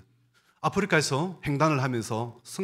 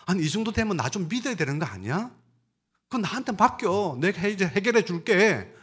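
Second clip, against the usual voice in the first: the Lord asking; 5 semitones higher than usual. Acted. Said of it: "우리 주님은 반대로 질문하십니다".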